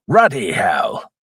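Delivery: lightly voiced drawn-out catchphrase; slow mock exclamation, falling away; Jim Broadbent. Reviewer repeating a film character's catchphrase, slow light impression. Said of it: "my money's on Jim Broadbent".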